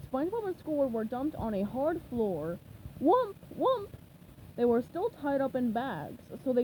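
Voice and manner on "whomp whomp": loud. Acted. Sound effect read aloud.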